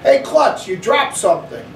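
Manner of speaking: sneering jeer, the first word jumped way up high; mean kid jeering at the girl on the floor; mocking taunt. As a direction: taunt her like a schoolyard bully. Bully mocks fallen girl.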